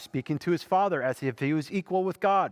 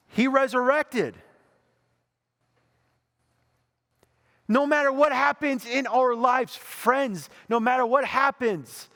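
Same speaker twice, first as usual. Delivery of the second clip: full-force preaching; 6 semitones higher than usual. Acted. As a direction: build to a rousing climax. Preaching climax.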